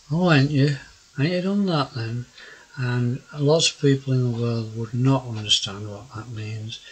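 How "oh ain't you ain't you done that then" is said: broad South Yorkshire, a little higher; South Yorkshire dialect. Shown as a demonstration. Old Yorkshireman showing viewers his dialect, broad South Yorkshire. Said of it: "I would probably say things like".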